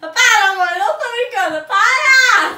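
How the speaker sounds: loud, upset yelling; yelling stop. Real, not acted. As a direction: shout at her to stop now. Daughter yelling at mom to stop.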